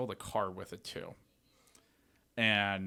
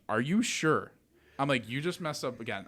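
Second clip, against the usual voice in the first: exasperated; 5 semitones higher, 4 dB louder than usual. Retold or imitated. Retelling frustrated call to title.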